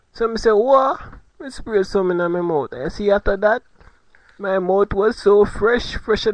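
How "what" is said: surprised what. Retold or imitated. Surprised in the story.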